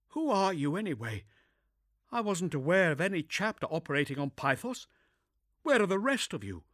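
composed but shaken inquisitor; young woman voice. Acted. Zula speaks.

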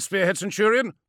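high, loud doubtful query; questioning. Acted. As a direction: question the order. Chrysaor questions order.

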